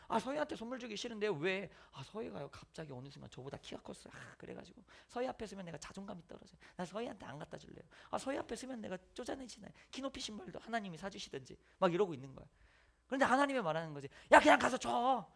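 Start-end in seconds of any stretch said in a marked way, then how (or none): 0.1-11.6 sulky refusal. Acted. Sulky Jonah refusing God. 14.3-15.3 firm command. Acted. God insisting loudly.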